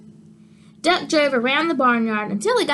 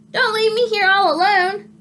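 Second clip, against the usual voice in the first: higher, louder panicky plea; pleading sheep; 8 semitones higher, 4 dB louder than usual. Acted. Sheep begs the others to wait, higher and pleading. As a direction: beg them not to go.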